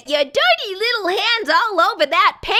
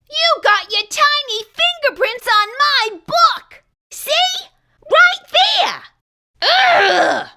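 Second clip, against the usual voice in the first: higher, rising to a loud yell; indignant outburst; 7 semitones higher, 3 dB louder than usual. Acted. Character catching fingerprints on his book, outraged yell. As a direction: scold in outraged bursts.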